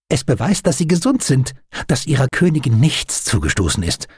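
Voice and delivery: high, eager, lively chatter; delighted enthusiasm. A narrator's reading. Doctor shows friend his glass beehive, excited. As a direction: gush proudly over a new treasure.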